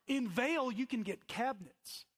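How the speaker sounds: chuckling through the punchline; laughing punchline. Real, not acted. Preacher laughing to the congregation about Vail prices. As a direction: laugh it out in disbelief.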